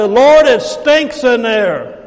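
slow, drawn-out holler back; hollered protest. Acted. We answer Jesus at the stone, hollered protest. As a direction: holler it back, stretching the words. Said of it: "we holler back".

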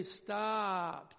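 emphatic preacher's halt; firm stop. Acted. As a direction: cut it off with authority. Preacher commanding himself to stop.

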